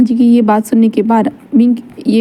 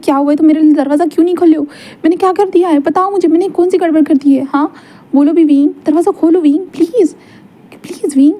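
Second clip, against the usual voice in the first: higher, fast, begging through a locked door; desperate pleading; 5 semitones higher than usual. Acted. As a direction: plead rising higher each line, tumbling out fast. (दरवाज़े पर ऊँची आवाज़ में तेज़ी से गिड़गिड़ाना)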